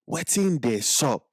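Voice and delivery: slow, careful Pidgin English phrase; Pidgin demo. Shown as a demonstration. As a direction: say it slowly so they can repeat. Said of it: "try it with me".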